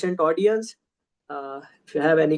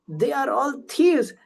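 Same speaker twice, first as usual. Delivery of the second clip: higher, drawn-out mock accusation; retold fury; 6 semitones higher than usual. Gopi accuses the boys, acted fury. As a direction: act out an indignant accusation, slowly. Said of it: "And she becomes furious".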